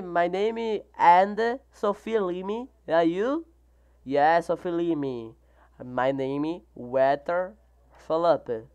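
sounding out English words slowly; slow English reading. Real, not acted. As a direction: read the English line word by word, slow.

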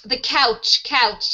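COUCH with a clear OW vowel and final CH; clear pronunciation model. Shown as a demonstration. Teacher showing student how to say couch, clear pronunciation. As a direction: model "couch" cleanly, rhyming with ouch. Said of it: "you, you call the couch".

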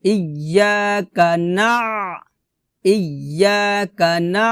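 measured chanting for students to repeat; Quran recitation demo. Shown as a demonstration. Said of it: "আমার সাথে বলেন".

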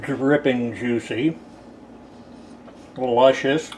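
talking through a mouthful; chewing while talking, mouth full. Real, not acted. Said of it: "I'm talking with my mouth full".

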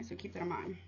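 usual speaking voice

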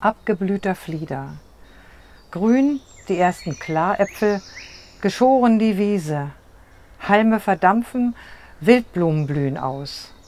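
measured recital in short phrases with pauses; poem recitation. Shown as a demonstration. Poet reads her summer poem for the interviewer, recited in spaced phrases. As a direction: let each image fall and settle. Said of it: "wenn du mir mal was vorträgst".

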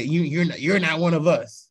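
mocking gatekeeper. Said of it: "people who just say".

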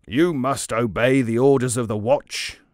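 loud commanding captain's bellow. Acted. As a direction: bark the order like a watch captain. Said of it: "bellowed the captain of the watch".

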